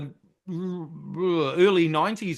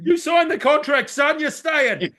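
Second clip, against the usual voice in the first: louder, firm scolding; stern telling-off; 6 semitones higher, 4 dB louder than usual. Retold or imitated. Telling the departing players off, stern and louder. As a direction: lay down the law.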